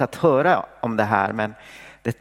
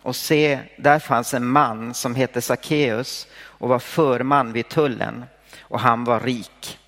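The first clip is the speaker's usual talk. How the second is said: measured, even Bible reading voice; solemn reading of Zacchaeus' story; scripture reading. Acted. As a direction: read the Gospel aloud to the congregation. Scripture reading before the sermon.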